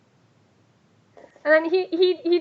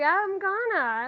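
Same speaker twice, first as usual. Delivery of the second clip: slow, higher drawn-out whine; whining kid; 5 semitones higher, much slower than usual. Acted. Child told to get clean, drawn-out whiny reply. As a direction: drag it out like a nagged child.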